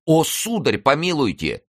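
high-pitched, mildly indignant plea; protesting lackey. A narrator's reading. Lackey protesting being called a thief, high plea.

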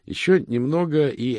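high, loud words collapsing into gibberish; overcome by drink. Acted. Moist hit by the strong drink, spluttering. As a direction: start firm, then splutter into noise.

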